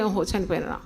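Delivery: low, quiet murmur of sympathy; token condolence. Acted. Preacher imitating funeral visitors, quiet token condolence. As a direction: softly act out a mourner's regret.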